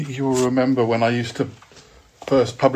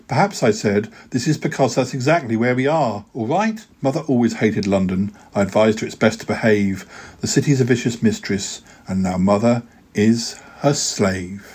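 rhythmic verse, the rhymes landing; poem reading. Acted. Poet reads his London poem on air, wry and rhythmic. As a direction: tell it like a wry rhyming story.

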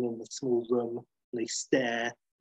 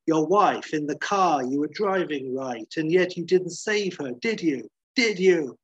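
higher, louder, pressing questions; heated accusation; 4 semitones higher, 4 dB louder than usual. Acted. McGee pressing Banner about his wife, heated. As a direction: hammer him, building on the last question.

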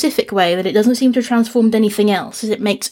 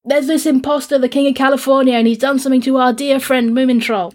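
put-on higher, excited kids reporting to a grown-up; tattling children; 4 semitones higher than usual. Children telling Moomin Mama about the imposter, high and urgent. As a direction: tell on the imposter breathlessly.

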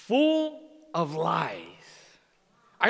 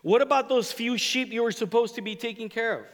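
demanding; 4 semitones higher, faster than usual. Retold or imitated. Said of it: "he demanded".

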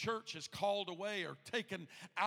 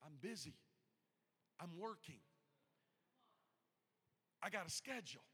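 muted brush-off; 6 dB quieter than usual. Acted. Busy man putting off the Lord's call, muted brush-off. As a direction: brush the caller off under your voice.

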